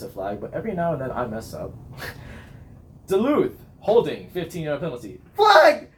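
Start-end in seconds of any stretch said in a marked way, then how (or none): 3.1-5.2 referee announcement. Acted. Imitates referee announcing a penalty. 5.3-5.9 high, very loud shout; full yell. Shown as a demonstration. Band captain reacting to a penalty, shouted high. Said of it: "all the things I yell".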